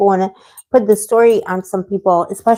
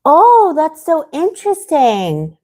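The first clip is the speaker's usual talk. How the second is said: surprised delight; 7 semitones higher, slower than usual. Real, not acted. Reacting to a chat message.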